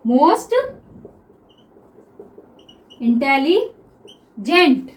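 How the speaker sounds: "इंटेलिजेंट" stretched very slowly syllable by syllable; drawn-out answer. Shown as a demonstration. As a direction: drag out the answer for the students. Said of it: "teacher reveals the answer". (उत्तर को बहुत धीरे खींचकर बोलना)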